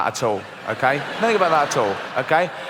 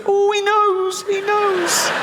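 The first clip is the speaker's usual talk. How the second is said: very high, frantic squeal; high panicked voice; 4 dB louder, much slower than usual. Acted. Fearful voice panicking.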